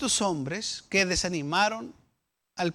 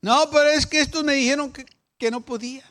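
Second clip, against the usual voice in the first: high whiny excuse; 6 semitones higher, 8 dB louder, faster than usual. Retold or imitated. Voicing the complaining people.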